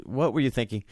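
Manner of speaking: retold reproach with a slight smile; hint of a smile. Boss half amused at injured young worker, mildly reproachful. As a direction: let a little amusement into the mild scolding. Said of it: "a little bit of a curl of a smile".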